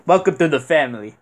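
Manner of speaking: light, bad Italian accent; hint of a Godfather Italian accent; Vito Corleone Italian accent. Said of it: "Italian accent is terrible".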